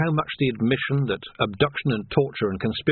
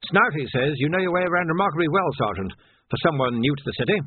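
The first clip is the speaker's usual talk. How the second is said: put-on higher-pitched old officer, pointedly casual; an old captain fishing for information; probing old captain; 6 semitones higher than usual. Old captain testing the new sergeant, probing.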